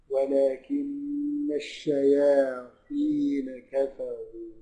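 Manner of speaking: slow chanted tajweed recitation; Quran recitation. Shown as a demonstration. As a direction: recite it slowly with drawn-out vowels. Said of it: "Quran recitation demo".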